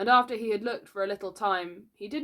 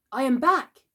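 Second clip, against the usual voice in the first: loud, raised announcement; hot, indignant; 7 semitones higher, 7 dB louder than usual. A narrator's reading. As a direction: demand the welcome you are owed. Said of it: "he said hotly".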